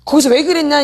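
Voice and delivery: exasperated self-blame, hammed up a little; mock self-reproach. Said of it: "나 자꾸 학대해봤자 답 안 나와".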